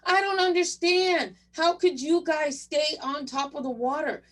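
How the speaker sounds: a man thrashing in the lake, panicked sputter; sputtering in the water. Retold or imitated. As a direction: splutter it out like you're sinking. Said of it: "he's sputtering around going".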